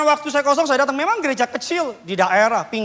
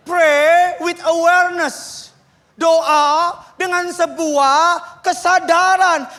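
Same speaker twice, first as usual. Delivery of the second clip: emphatic preaching; much slower than usual. Acted. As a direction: preach it slowly, hitting each word. Pendeta berkhotbah dengan tegas. (khotbah lambat dan keras, setiap kata ditekan)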